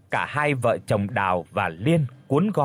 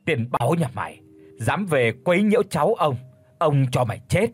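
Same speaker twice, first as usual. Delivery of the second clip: a lightly put-on booming grandfather voice. Báu as the possessing grandfather, mock booming. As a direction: boom out the ghost grandfather's threat. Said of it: "cất cái giọng ồm ồm".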